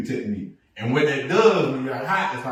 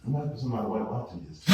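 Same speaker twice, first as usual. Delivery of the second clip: laughing aside; 4 semitones lower, 8 dB quieter, much faster than usual. Real, not acted.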